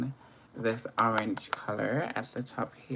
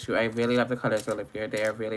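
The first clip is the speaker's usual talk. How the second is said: ordinary talk, nothing marked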